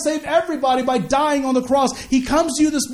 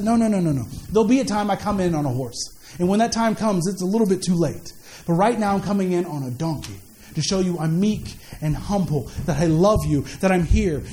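lower, tender and reassuring; gentle Jesus voice; 5 semitones lower than usual. Acted. Jesus gently telling the crowd he comes in peace.

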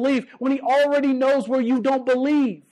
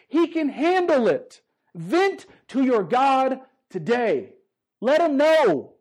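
slow reassurance; 3 semitones higher, slower than usual. Real, not acted. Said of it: "preaching slow emphasis".

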